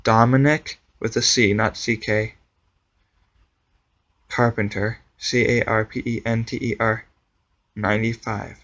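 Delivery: slow, carefully over-enunciated spelling; over enunciating. Shown as a demonstration. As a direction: spell each letter out, slowly. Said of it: "I'll say it slower".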